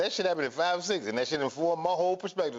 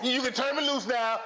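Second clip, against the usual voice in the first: granny voice; 5 semitones higher than usual. Retold or imitated. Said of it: "She said in the perfect granny voice".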